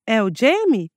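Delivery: "É o Jamie?" with the pitch rising at the end like an unsure question; rising question tune. Retold or imitated. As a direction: say "É o Jamie?" as if doubting your own name, lifting the end. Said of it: "inflexão interrogativa, em que a entonação da voz sobe no fim da frase".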